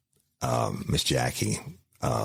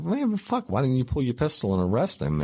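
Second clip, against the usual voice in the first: exasperated outburst; 10 semitones higher than usual. Retold or imitated. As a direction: throw your hands up: why didn't you act. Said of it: "and I was like".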